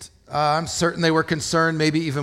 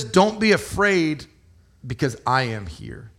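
earnest reassurance. Retold or imitated. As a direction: say it gently, like a promise of presence. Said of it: "He says".

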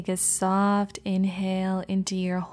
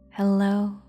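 gently voiced hello, a touch louder; inner hello; 4 dB louder than usual. Shown as a demonstration. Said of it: "Perhaps saying".

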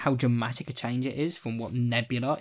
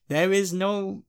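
higher, briefly attempted T'Challa accent; T'Challa's accent; 7 semitones higher, slower than usual. Quoting T'Challa to a co-host, in his accent. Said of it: "I started to do it there".

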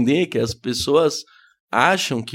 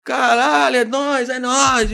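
much higher, loud mock hype; hyped bro reply; 11 semitones higher, 4 dB louder, slower than usual. Comedian answers fan, hammed-up bro hype. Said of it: "Ainda mais eu que sou tímido".

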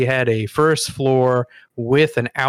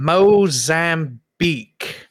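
put-on posh English accent. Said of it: "And I said".

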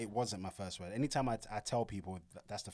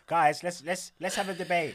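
imitating eager partner; 8 semitones higher, 8 dB louder than usual. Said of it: "it's always".

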